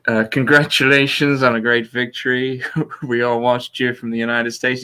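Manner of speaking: Trump voice. Acted. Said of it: "let me get my Trump voice out".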